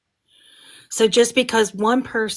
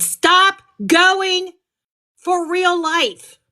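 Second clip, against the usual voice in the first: high pleading cry; 10 semitones higher, 5 dB louder, much slower than usual. Real, not acted. Emphatic plea closing her speech.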